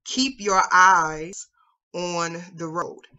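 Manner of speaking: very slow, calm and steady; calm instructor. Retold or imitated. Instructor to panicking learner, calm and very slow. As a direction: coach it slowly, steadying a nervous driver. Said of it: "really calmly says".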